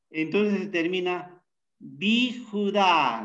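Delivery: bijudá said slowly, syllable by syllable; teacher slowly spelling out bijudá; sounding out bijudá. Shown as a demonstration. Teacher showing students the Hebrew ending, slow and careful. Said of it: "así es como termina".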